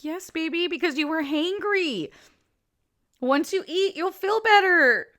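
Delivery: mother calmly soothing her hangry daughter; patient mom. Retold or imitated. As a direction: coax the child gently. Mom quotes her own reply.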